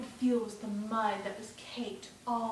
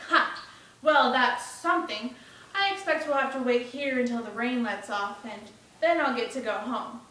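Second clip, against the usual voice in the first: louder boyish voice, a hint of confidence; relieved young Bruno; 6 dB louder than usual. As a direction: reason it out like an untroubled boy.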